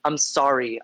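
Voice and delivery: stuffy nose from a cold; congested. Real, not acted. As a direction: speak through a blocked nose. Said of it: "if I sound congested".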